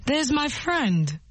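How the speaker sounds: slow and clear for learners; slow model phrase. Shown as a demonstration. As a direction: say it slowly for the class. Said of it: "Voilà mon ami".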